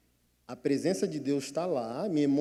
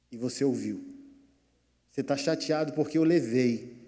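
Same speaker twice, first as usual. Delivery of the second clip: God speaking; 4 semitones lower than usual. Acted. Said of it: "Aí o Senhor falou".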